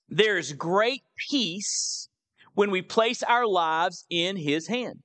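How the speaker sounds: slow emphatic point with drawn-out "great peace"; slow, deliberate. Real, not acted. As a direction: state the key point slowly, pausing after "peace". Reads the note's point out slowly.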